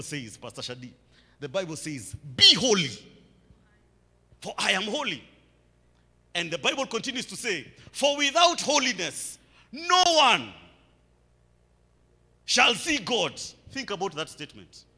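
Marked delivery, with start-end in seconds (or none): 2.3-5.2 sudden loud scriptural command; preached command. Acted. Preacher quotes God's command to the congregation, forceful declamation. 7.9-13.4 raised, loud preaching with a long pause; emphatic scripture warning. Acted. Preacher warns the congregation from the Bible, emphatic declamation.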